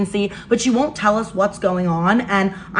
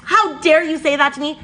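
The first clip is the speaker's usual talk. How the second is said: higher-pitched affronted retort; upset, mock indignant; 5 semitones higher than usual. Storyteller mimicking stepsister's reply to being called brat, offended. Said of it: "starts getting really upset".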